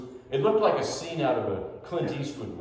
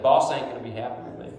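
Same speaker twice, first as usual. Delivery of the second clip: Larry the Cable Guy drawl; faster than usual. Retold or imitated. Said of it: "and he talked like that".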